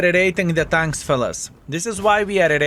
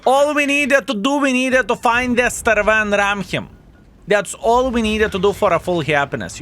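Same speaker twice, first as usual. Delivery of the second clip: excited gloating; 6 semitones higher than usual. Real, not acted. Gloating after a big win.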